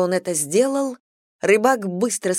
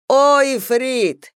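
calling out; 8 semitones higher, 7 dB louder, much slower than usual. Acted. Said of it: "fisherman addresses the genie".

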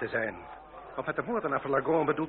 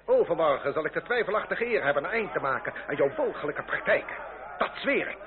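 raised, cutting threat; angry challenge; 2 semitones higher than usual. Acted. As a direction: challenge him to a duel with cold fury. Marquis issues duel challenge. (boze uitdaging aan de duellist)

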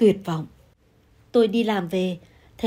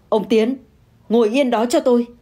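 sharp command; 3 semitones higher, 3 dB louder than usual. Acted. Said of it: "Bà Hoa liền quát".

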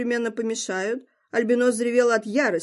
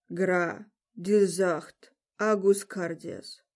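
rasping; 3 semitones lower, 3 dB quieter, much slower than usual. Acted. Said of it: "прохрипел Вард".

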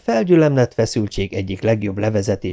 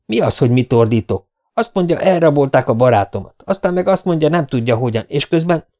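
visszafogottan emelt, felháborult hang; háborodj fel, és kérd számon rajta; dühös kifakadás; 5 semitones higher, 3 dB louder than usual. Acted. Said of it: "és maga itt ordítozik". (felháborodott, számonkérő kifakadás)

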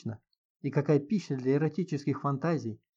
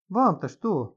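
smirking; 5 semitones higher, 4 dB louder, much slower than usual. A narrator's reading. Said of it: "усмехнулась Инга".

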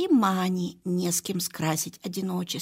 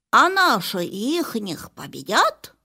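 slow, louder eager question; eager dog voice; 2 semitones higher, 6 dB louder, slower than usual. Acted. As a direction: blurt it out like a curious puppy. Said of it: "не выдерживает Куба".

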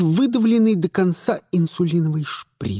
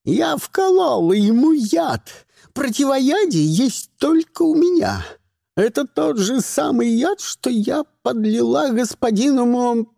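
high, frantic threatening woman's voice; hysterical villainess; 7 semitones higher than usual. A narrator's reading. Madam Rodriguez bragging about the poison, high and shrill. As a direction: gloat shrilly over the poison. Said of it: "визжала мадам Родригес".

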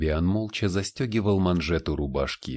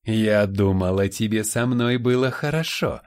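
mocking seductress; 3 semitones higher, 4 dB louder than usual. Demon mocks her victim.

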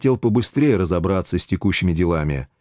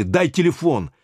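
higher, insistent demand; demanding the phone, raised; 6 semitones higher than usual. Acted. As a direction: snap out the order.

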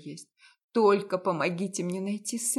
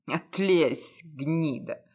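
lowered sneering man's voice; contemptuous; 7 semitones lower, slower than usual. A narrator's reading. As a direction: lower male voice, scornful sneer. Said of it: "С презрительным смешком сказал Константин".

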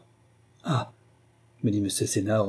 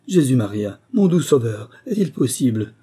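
louder cry of dismay; shocked exclamation; 5 dB louder than usual. Acted. Servant learns they are ruined, shocked exclamation. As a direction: exclaim in mild horror.

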